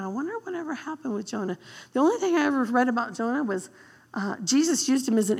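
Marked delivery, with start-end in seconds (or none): 0.0-1.6 musing aloud. Retold or imitated. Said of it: "I'm like going".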